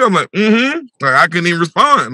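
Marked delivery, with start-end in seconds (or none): 0.3-0.9 closed-mouth, higher hum; mouth shut. Retold or imitated. Son too far gone to answer his mom, closed-mouth hum. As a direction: answer without opening the mouth. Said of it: "I couldn't open my mouth".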